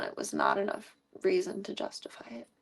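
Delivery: breathy whisper. Real, not acted. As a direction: drop to a whisper. Whispered aside in story.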